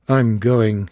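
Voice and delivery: level cold statement; calm, clear. Acted. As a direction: say it coolly and flatly final. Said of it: "in his calm, clear voice".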